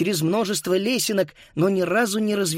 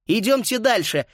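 higher-pitched, urging the others on; 6 semitones higher than usual. A narrator's reading. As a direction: hurry them along in a raised pitch. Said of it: "подгоняла Фрида".

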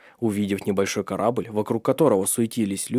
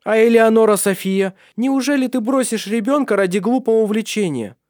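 high, loud scolding lady's voice; reproachful noblewoman; 12 semitones higher, 6 dB louder than usual. Acted. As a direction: shame her for abandoning the child.

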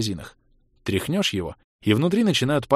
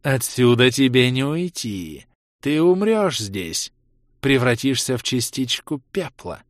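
slow, rasping threat; grating undead voice; slower than usual. Acted. Mirta threatens Ros with death, rasping slowly. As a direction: grind out the doom slowly. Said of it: "Мирта проскрежетала".

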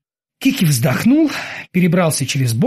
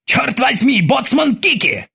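barking; 8 semitones higher, slower than usual. Acted. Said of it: "рявкнул он".

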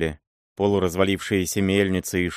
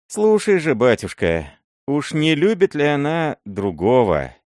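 put-on old miller hinting; 7 semitones higher than usual. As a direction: slip the hint in warily.

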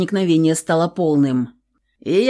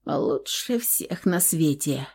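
slow, much softer mumble; mumbled; 8 dB quieter, slower than usual. A narrator's reading. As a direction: barely get the words out, drowsy and slow. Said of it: "пробормотала маловнятно". (невнятно бормочет, тихо и медленно)

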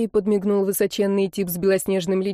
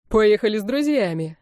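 весело. Acted. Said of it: "весело бросил Черри".

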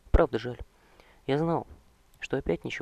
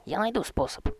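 yelled; 9 semitones higher, 4 dB louder than usual. Acted. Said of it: "заорал Квентин".

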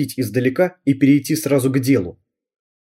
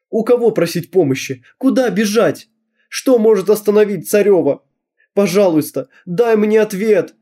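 squeaking; 7 semitones higher than usual. Acted. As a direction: plead up high like a squeak. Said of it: "пропищала я". (девочка пищит, моля икону о помощи)

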